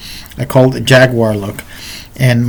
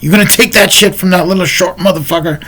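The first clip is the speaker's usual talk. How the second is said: higher-pitched imitation of egging on; mock goading in a raised pitch; goading roommates; 6 semitones higher, faster than usual. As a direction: mimic roommates taunting him. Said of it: "his roommates were like".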